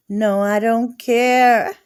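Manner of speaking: mock-defiant no I don't care. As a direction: insist you don't care, slowly. Repeated, louder defiant take.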